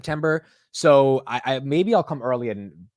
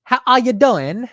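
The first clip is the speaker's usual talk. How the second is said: hammed-up British accent, high, loud and drawn out; attempted British accent; 11 semitones higher, 8 dB louder, slower than usual. Shown as a demonstration. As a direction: try a bad British accent, pitched up. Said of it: "as a Brit".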